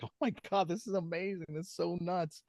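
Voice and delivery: high, thrilled gasp of delight; excited. Retold or imitated. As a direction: squeal over the find. Retold excited self at records.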